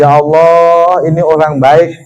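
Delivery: mild retold weeping plea, long opening cry; lightly acted tearful supplication; imitated tearful prayer. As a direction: plead to God, fading as you go. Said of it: "di Madinah saya tangisin".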